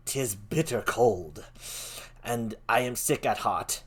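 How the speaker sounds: weary lament. Acted.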